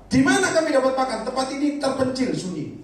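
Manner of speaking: high anxious complaint, fading at the end; high worried disciple voice. Retold or imitated. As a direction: worry aloud like a disciple.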